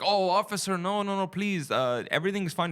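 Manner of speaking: imitating a dad's put-on Texas voice pleading with a cop. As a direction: beg the officer in a fake Texas accent. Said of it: "doing his Texas voice".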